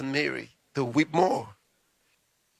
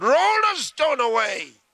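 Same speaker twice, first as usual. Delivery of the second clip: higher, louder, slow and firm; authoritative command; 9 semitones higher, 6 dB louder, slower than usual. Acted. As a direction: order it with full authority. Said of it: "because he was more authoritative".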